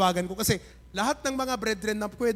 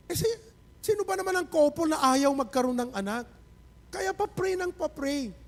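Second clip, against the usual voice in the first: real tears; 6 semitones higher than usual. Real, not acted. Pastor moved retelling couple's struggle.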